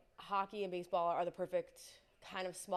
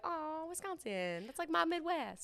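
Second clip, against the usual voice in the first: excited; 9 semitones higher, slower than usual. Retold or imitated. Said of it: "I was like".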